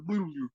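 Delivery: imitated splash burbles. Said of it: "And then she just go".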